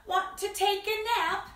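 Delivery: high-pitched cat's invitation; storybook cat. Acted. Cat invites the spider to nap, high cat voice. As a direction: pitch it up as a friendly kitty. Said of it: "cried the cat".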